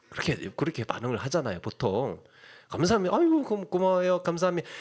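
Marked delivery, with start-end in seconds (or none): 2.7-4.7 grateful thanks. Retold or imitated. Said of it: "이렇게 반응을 하지 않습니까?".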